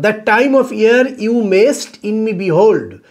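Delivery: slow, measured verse reading; poem recitation. Shown as a demonstration. Teacher reading a Shakespeare sonnet to students, slow recitation. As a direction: read the line out slowly, word by word. Reads sonnet line to class.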